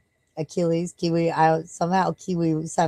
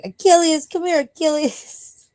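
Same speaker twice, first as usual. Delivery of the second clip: much higher, louder mock call to the dog; imitating the neighbor; 12 semitones higher, 4 dB louder, slower than usual. Neighbor calling the dog over, mock high call. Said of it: "he's always like".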